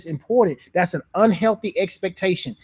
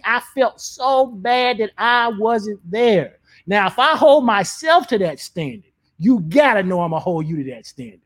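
passionate; 4 semitones higher than usual. Real, not acted. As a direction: press each point home with conviction. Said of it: "was you passionate about that".

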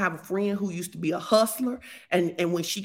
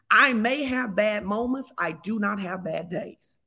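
slow affirmation; slower than usual. Shown as a demonstration. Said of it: "enter this caveat".

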